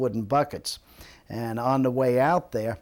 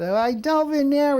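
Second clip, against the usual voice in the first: put-on fretful old man; 13 semitones higher, 7 dB louder than usual. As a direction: plead like an old man who lost his teeth. Old man explaining to lifeguard.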